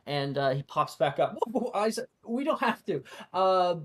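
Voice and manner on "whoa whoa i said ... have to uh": higher, fast, placating patter; smooth-talk your way out of a fight, quick and high; talking his opponent down, high and quick; Wilfred's voice. Acted.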